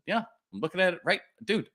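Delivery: high, fast, a bit exasperated; impatient insistence. Retold or imitated. Clerk tells a doubtful caller he sees the boot, high fast exasperation.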